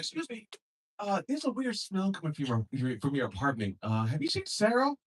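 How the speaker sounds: timid neighbor knocking at the door; polite neighbor. Acted. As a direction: neighbor asking about a smell. Acted neighbor asking politely.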